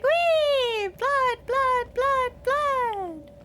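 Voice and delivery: high, loud delighted bloodthirsty squeal; gleeful yell. Retold or imitated. Imitating her favorite student yelling with rapturous delight. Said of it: "how does she yell it?".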